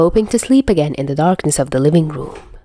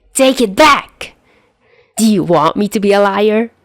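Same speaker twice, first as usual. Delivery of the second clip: indignant demand; 3 semitones higher than usual. A narrator's reading. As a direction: demand he takes it back. Pinned-down quarrel.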